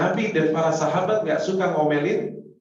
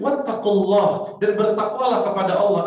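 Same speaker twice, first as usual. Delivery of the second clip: raised emphatic recitation; 6 semitones higher, 7 dB louder than usual. Real, not acted. Emphatic Quran citation.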